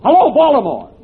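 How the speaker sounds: loud, insistent calls down the line; calling into the phone. Acted. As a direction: shout hello into the receiver.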